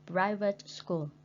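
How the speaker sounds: slow, teacherly "Private school", weight on PRI; first-syllable stress. Shown as a demonstration. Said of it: "put the straight mark on the first".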